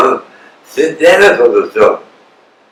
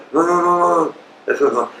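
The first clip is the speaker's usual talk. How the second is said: rapid higher no no no, then dropping soft; emphatic correction; 7 semitones higher, 4 dB quieter, faster than usual. Real, not acted. Preacher corrects the congregation, firm repeated no. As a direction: wave off the wrong prayer firmly.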